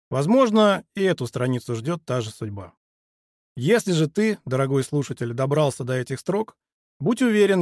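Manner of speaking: ordinary delivery, nothing marked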